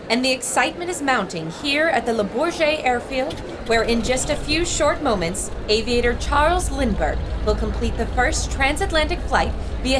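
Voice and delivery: reporter describing the scene live; on-air commentary, building anticipation; live radio report. Acted. Reporter Laura telling listeners about the landing, live broadcast.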